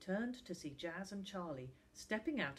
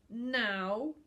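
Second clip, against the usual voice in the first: loud, raised command; curt order; 4 semitones higher, 10 dB louder than usual. Acted. Sam pulls at Finn's arm, ordering loudly. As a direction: insist forcefully on instant obedience.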